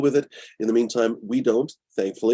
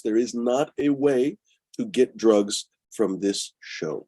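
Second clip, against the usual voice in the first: slow, emphatic, word-by-word insistence; deliberate stress on "not a way"; quite serious; much slower than usual. Real, not acted. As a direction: lay down the rule slowly and firmly. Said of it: "I'm quite serious about this".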